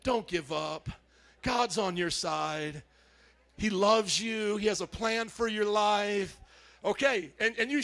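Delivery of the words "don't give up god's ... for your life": slow, gentle reassurance; calm it down and comfort; reassuring encouragement. Shown as a demonstration. Pastor modeling comfort for the other neighbor.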